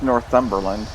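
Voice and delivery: "Northumberland" with the TH said together, nor-THUM-ber-land; correcting "Northumberland", TH sounded as one; insistent correction. Shown as a demonstration. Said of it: "it's pronounced".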